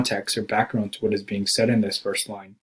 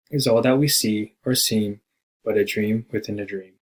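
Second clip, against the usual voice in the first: poem reading. Acted. Reciting the poem aloud.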